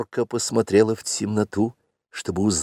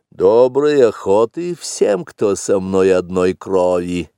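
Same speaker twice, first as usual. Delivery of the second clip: slow panther greeting; slower than usual. Acted. Panther greets the watering hole.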